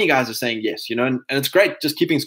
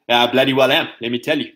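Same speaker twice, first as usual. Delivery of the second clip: mock British answer. Answering as proud son.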